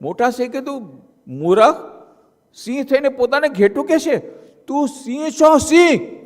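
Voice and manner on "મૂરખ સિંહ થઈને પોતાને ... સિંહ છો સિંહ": scolding lion. Acted. Big lion scolds the cub.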